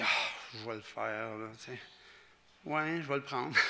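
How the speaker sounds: low, soft and grudging, dragging the words out; grudging reluctant reply. Retold or imitated. A preacher mimics a grudging believer, in a low, unwilling mutter. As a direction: sound like you'd rather not, but fine.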